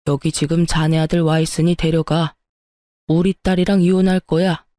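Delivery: gruff but held-back scolding down the phone; angry father on phone. Acted. Father calling his friend to fetch the cheating son, mildly angry.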